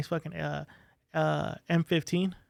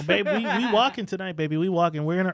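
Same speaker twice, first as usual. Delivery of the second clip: chuckling, upbeat rallying; laughing pep talk. Retold or imitated. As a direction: cheer her on with a laugh. Cheery pep talk to wife.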